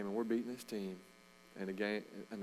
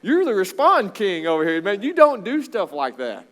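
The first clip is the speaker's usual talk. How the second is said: very high, loud self-scolding yell; yelling at himself; 10 semitones higher, 16 dB louder than usual. Retold or imitated. Coach yelling at himself for losing his cool. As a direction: shout it at yourself in disbelief. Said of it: "And I was like".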